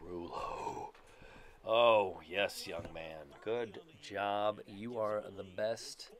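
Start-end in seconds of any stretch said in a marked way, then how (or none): 1.7-6.1 loud burst then slow proud praise; excited cheer. Real, not acted. Gamer cheers his player Rulo after a hit, loud and proud.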